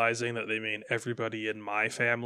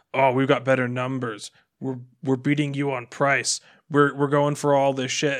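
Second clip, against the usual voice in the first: mock-aggressive brag, punched a little louder; aggressive boasting; 5 dB louder than usual. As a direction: mimic a pushy rival bragging. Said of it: "all angular and aggressive and angry".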